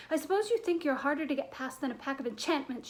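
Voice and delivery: angry, emphatic scolding; storming. Acted. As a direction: tear into them with an indignant telling-off. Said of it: "she stormed".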